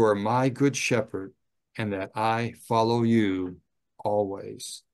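unhurried, prayerful read aloud; slow prayer reading. Shown as a demonstration. Chaplain reading a prayer aloud to residents, slow and prayerful. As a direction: read the prayer slowly as in the home. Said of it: "I don't want it to be fast".

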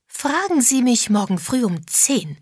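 loud tipsy announcement; speaking out loud. A narrator's reading. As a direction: say it out over the room. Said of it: "sagte Misses Josephs laut".

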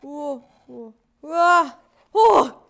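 loud, high thrilled wow; excited shout. Real, not acted. Idol packing her album, shouting a loud, high wow. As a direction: burst out in delight.

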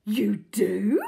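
eager hushed whisper; breathless whisper. A narrator's reading. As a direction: gasp it in a whisper. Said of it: "she cried".

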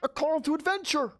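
announcer voice. Pretend. Announcer call.

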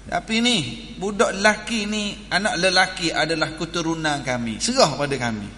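imitating demanding in-laws. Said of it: "Hak keluarga lelaki kata".

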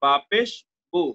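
"বু" with a short, unstretched u; short quick vowel. Shown as a demonstration. Teacher showing the pesh vowel, "বু" said short. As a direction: spell "বা পেশ", then a quick "বু". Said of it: "আমরা দ্রুত করব".

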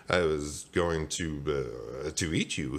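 low, halting shocked reply; slow, dumbfounded hesitation; stunned stammer. Acted. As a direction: falter slowly, low and dazed. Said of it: "he replied in shock".

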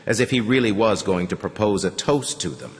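usual speaking voice

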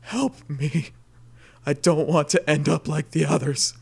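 weak, raspy plea from a battered train engine; raspy, disturbing muttered plea for help. Acted. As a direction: mutter it with an eerie rasp. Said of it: "In a very disturbing, raspy voice, he mutters".

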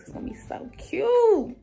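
high airy whisper. Real, not acted. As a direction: breathe it in a whisper. Whispered second take.

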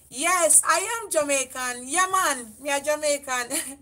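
loud, lilting Jamaican declaration; playful Jamaican patois. Real, not acted. Answering a viewer who asks if she's Jamaican, playful Jamaican patois. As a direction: proudly lean into Jamaican patois.

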